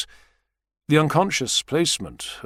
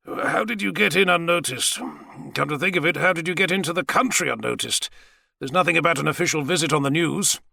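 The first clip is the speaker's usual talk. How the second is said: higher-pitched, probing questions; inquiring Savage; 6 semitones higher than usual. Acted. Savage questioning the president about his visit, probing. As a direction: puzzle it out aloud in character.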